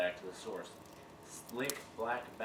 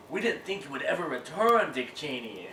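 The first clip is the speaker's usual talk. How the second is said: beaver voice; 6 semitones higher, 9 dB louder than usual. Retold or imitated. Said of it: "Maxim Beaver voice".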